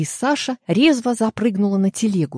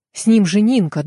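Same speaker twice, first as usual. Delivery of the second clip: louder, alarmed cry; anxious mother; 3 semitones higher, 5 dB louder than usual. Acted. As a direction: blurt out the fear for her girl. Mother fears for her daughter.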